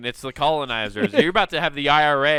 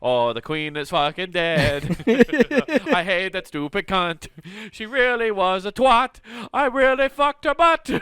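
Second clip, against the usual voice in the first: put-on rowdy Irish drunk; 4 semitones higher than usual. Drunk Irish rant continues.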